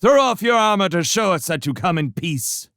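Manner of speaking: high, loud demand; shouted command. Acted. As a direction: insist they strip their armor. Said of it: "Constance shouted".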